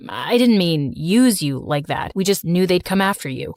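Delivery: put-on deep, steady young man; calm her down in a low voice; low reassuring male voice. Slater explains.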